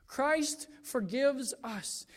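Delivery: "Christ forgives us" spoken aloud, slow and deliberate; slow down and give each word of "Christ forgives us" weight; slow emphasis. Shown as a demonstration. Restated slowly aloud.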